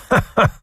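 sharp high mocking laugh, ha ha. Sakowicz laughing at the lovesick prince, mocking laugh. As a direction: laugh in his face.

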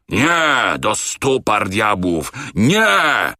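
high bursts round a slow curse; raging refusal. A narrator's reading. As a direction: refuse with fury. Captain refusing in rage.

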